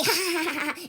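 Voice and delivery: real laughter breaking through; laughing. Real, not acted. Telling her followers the story, laughing.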